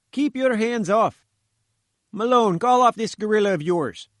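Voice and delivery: a fat little reporter held by a giant; indignant journalist. A narrator's reading. Journalist struggling with gatekeeper.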